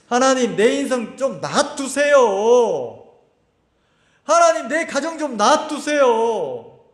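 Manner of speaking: slow, drawn-out plea to be left alone; lightly acted stubborn plea, stretched out slowly; a hint of a sulky believer begging God to back off; mock pleading.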